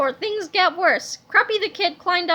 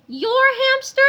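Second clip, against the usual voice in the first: surprised; 9 semitones higher, 5 dB louder than usual. A narrator's reading. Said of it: "said George".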